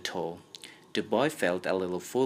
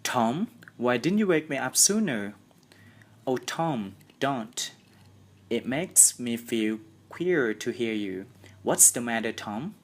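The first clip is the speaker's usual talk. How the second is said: frightened; 4 semitones higher than usual. Acted. Sid frightened.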